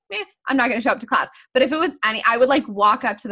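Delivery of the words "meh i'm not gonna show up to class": dismissive quote. Retold or imitated. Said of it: "I'd be like".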